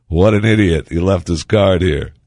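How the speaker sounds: loud scornful jeer at a careless man; mocking scoff. A passerby loudly mocking the man who left his card. Imagined finder mocking him.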